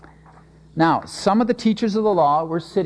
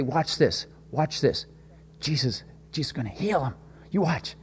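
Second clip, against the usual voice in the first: softly, eager townsfolk nudging each other; hushed crowd murmur; 2 semitones lower, 6 dB quieter than usual. Retold or imitated. The crowd murmurs to each other about Jesus, hushed and eager. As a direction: murmur it like gossip passing through a crowd. Townspeople whispering expectantly at the healing.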